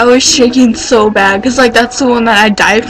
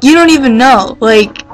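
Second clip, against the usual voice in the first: snapping at mom; 2 semitones higher than usual. Retold or imitated. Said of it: "I go off on her".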